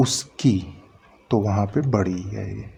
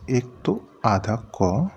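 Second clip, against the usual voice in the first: slow teaching emphasis; slower than usual. Shown as a demonstration. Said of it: "इस क में दो चीज़ें समाहित हैं".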